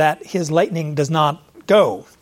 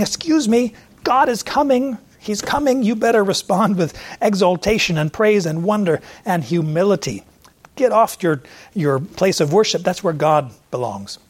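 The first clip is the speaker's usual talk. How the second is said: Elihu rebuking; 3 semitones higher than usual. Retold or imitated. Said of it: "Elihu's saying".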